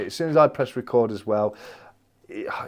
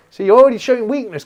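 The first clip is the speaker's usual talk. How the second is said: mock taunt; 11 semitones higher, 10 dB louder, faster than usual. Teasing Craven over the challenge.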